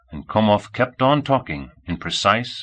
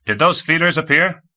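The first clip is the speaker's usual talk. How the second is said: high, raised questioning call; 9 semitones higher, 4 dB louder than usual. A narrator's reading. Komov calling a question to Micah, voice raised. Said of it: "he called".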